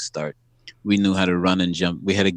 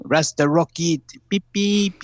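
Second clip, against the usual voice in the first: mock fan yell; 9 semitones higher, slower than usual. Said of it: "French people yelling".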